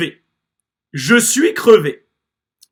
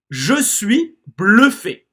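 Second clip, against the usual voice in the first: slow; 2 semitones higher, slower than usual. Shown as a demonstration. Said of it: "This time we're gonna try to do it a little quicker".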